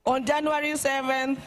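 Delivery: solemn, measured eulogy reading; faltering tender eulogy. Acted. Reads eulogy at state funeral.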